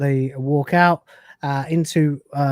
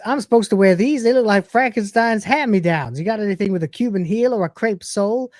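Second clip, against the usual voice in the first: Kat voiced; 6 semitones higher than usual. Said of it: "Kat says".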